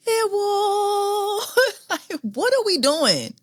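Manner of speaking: high, breathless laughing. Real, not acted. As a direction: laugh through the words. Laughing at the rose text.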